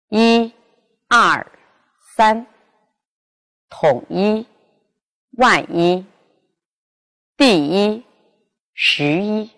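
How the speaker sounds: 一 said in its own first tone, high and level; high flat 一 in every word; yi in original tone. Shown as a demonstration. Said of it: "读本调".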